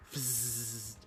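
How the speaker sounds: soft imitated tire hiss; leaky tire sound effect; hissing air. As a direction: let out a long "fzzz" like escaping air.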